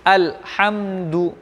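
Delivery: अल्हम्दु in measured syllables ending in a clear "du"; teacher's model अल्हम्दु, ending "du" not "do"; model recitation. Shown as a demonstration. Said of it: "आपको इस अंदाज से पढ़ना है".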